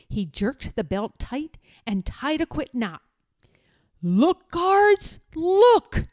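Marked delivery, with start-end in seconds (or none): 4.0-6.1 high excited shout to the guards; taunting shout at the guards. A narrator's reading. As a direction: call out in triumph. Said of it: "shouted Eric".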